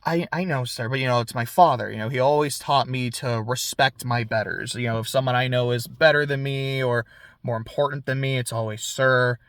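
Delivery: put-on polite, low-pitched boy; Theo. Boy explains his manners to a villain, low polite voice. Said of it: "Theo's very polite the entire time".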